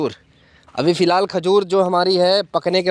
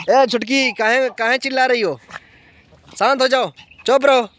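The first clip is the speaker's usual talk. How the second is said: pitched-up scolding of a noisy puppy; hushing the puppy; 5 semitones higher than usual. Real, not acted. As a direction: tell the little pup to hush, voice raised high.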